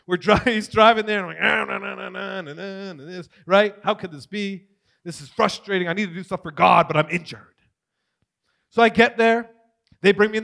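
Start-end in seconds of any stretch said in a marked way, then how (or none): 1.4-7.5 imitated whiny complaining; mock self-pitying grumble; whining. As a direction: whine through wordless nagging into complaint. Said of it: "I'm whining all the way".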